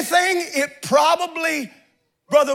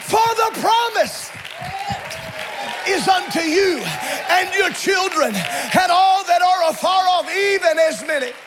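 full-force preaching; 2 semitones higher than usual. Acted.

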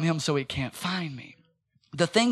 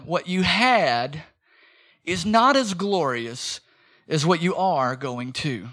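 slow emphatic; 2 semitones lower, slower than usual. Shown as a demonstration. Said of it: "Let me say it again".

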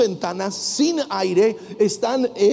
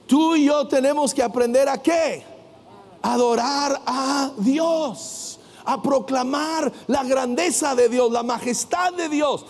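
rousing preaching; 3 semitones higher than usual. Real, not acted. Preacher urges congregation to worship God, rousing and building. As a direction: proclaim it with growing force.

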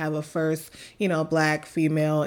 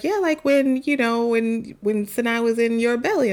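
son's voice; 5 semitones higher than usual. Retold or imitated. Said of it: "Kyrie was like".

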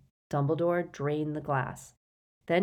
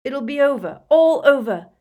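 gasping urgency, high and building louder; frantic, raised-voice pleading; Harry; 9 semitones higher, 11 dB louder than usual. A narrator's reading. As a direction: reassure desperately, voice climbing. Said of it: "gasped Harry".

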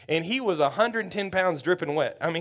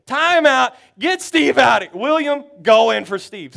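louder, higher coach barking orders; commanding shout; 5 semitones higher, 9 dB louder, slower than usual. Retold or imitated. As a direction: call the timeout and pull him fast. Coach calls timeout, subs player.

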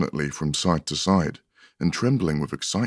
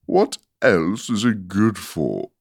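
lofty flower; 3 semitones higher, 3 dB louder, slower than usual. Acted. Rose continues.

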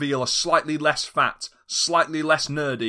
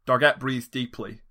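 usual speaking voice

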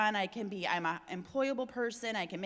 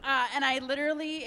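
real laugh, still emotional, a little higher and louder; teary laugh; 5 semitones higher, 4 dB louder than usual. Real, not acted. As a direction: laugh past the tears. Crying, laughs it off.

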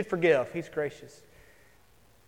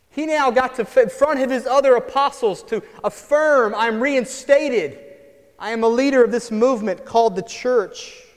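rising preaching fervor; 5 semitones higher, 5 dB louder than usual. Acted. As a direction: lift the voice, preach it out loud. Preacher building to Peter's reinstatement.

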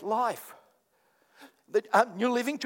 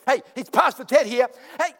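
higher, louder stammering apology to police; mock sheepish apology; 6 semitones higher, 6 dB louder, faster than usual. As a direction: grovel on the phone to the police. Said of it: "I go".

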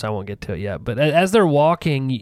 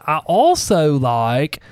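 "I also like" drawn out very slowly; deliberate restart; much slower than usual. Shown as a demonstration. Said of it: "I don't know why I sound such a hillbilly".

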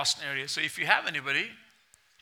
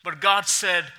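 measured, expressive Bible reading; scripture reading; 2 semitones higher than usual. Acted. Pastor reading Jonah to the congregation, steady and expressive. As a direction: read the passage aloud to the church.

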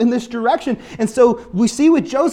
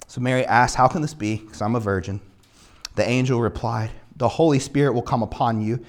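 low, measured Bible reading; scripture reading; 8 semitones lower than usual. A narrator's reading. Preacher reads the angel's message to Joseph, solemn reading. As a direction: read the verse aloud in a lower, even voice.

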